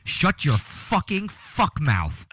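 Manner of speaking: very slow, each word stretched; drawn-out scold. Real, not acted. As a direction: drag every word out to scold. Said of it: "telling cohost to stop".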